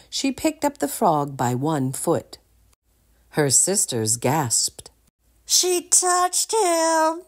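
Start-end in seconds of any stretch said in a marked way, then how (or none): 5.5-7.2 high, slow whispered moan. A narrator's reading. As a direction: moan it, about to faint. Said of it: "moaned Prince Humperdinck".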